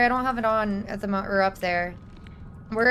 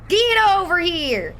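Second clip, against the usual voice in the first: 1 slower drawn yell; 5 semitones higher, 3 dB louder, slower than usual. Pretend. Chasing victims, yelling.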